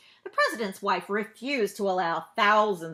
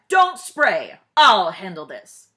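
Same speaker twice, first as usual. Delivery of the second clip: loud, firm order; commanding stop; 14 dB louder, slower than usual. Acted. President orders the exterminator not to spray, loud and firm.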